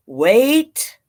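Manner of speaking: breathy whisper of wait. Acted. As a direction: hush it like a sneaky spider. Spider whispered.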